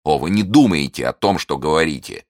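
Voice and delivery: loud wounded protest; indignant. Acted. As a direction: push back hard against her words. Felton protests, offended.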